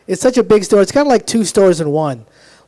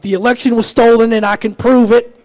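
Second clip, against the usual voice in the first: conspiracy guy; 4 semitones higher, 5 dB louder than usual. Acted. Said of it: "people are like".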